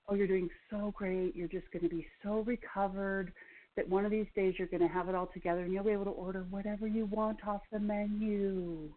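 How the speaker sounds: lightly lilting inner voice, mildly mocking; a hint of a sweet, coaxing sing-song. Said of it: "sing-song voice in my head say".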